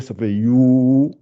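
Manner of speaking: You held long and rising; slow drawn-out You. Shown as a demonstration. Teacher showing pupils the sound, slow You. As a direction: stretch You out for the class. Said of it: "le Y avec le Ou".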